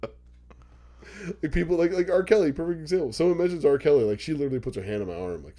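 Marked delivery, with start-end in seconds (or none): 0.0-0.1 whispered curse. Retold or imitated. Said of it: "I'm like".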